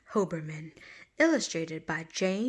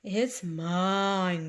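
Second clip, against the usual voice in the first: groaning mole. Acted. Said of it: "groaned the mole".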